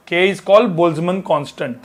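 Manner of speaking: each word drawn out for notes; slow dictation. Shown as a demonstration. Teacher dictates a definition to students, very slow. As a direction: spell it out slowly so students can write.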